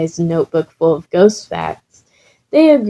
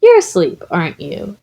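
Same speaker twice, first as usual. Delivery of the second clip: surprised. Acted. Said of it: "Izuku said".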